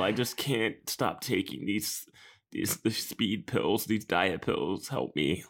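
lightly hammed-up, slow plea; mock Saved by the Bell melodrama. Parodying a very special episode, slow mock-melodramatic plea. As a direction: drag it out like teen TV drama. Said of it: "it's the Saved by the Bell".

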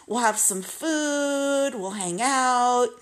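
high, slow, gushing welcome; gushing friend. Retold or imitated. Friend greeting Tracy at her beauty supply, gushing and slow. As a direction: coo it like a thrilled hostess. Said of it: "she'd be like".

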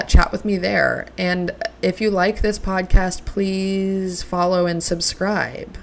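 slow, drawn-out mock podcaster sign-off. Asking listeners to subscribe, a playful mock podcaster voice. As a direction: play at being a pro podcaster. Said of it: "Do I sound like a real podcaster now?".

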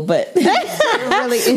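holding back a giggle; laughing through the words; stifled giggles. Real, not acted. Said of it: "I'm really trying not to giggle".

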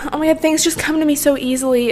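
"Oh my God" lightly gushed, high, in an airy mock voice; mocking a privileged girl's gush, voiced aloud. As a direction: gush "Oh my God" like a smug lucky girl. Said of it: "here talking about how".

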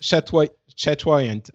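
"chatoyant" said slowly as shat-WAI-ent; careful pronunciation. Shown as a demonstration. Offering a friend the way to say "chatoyant". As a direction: sound out "chatoyant" slowly, syllable by syllable. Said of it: "How do you say that?".

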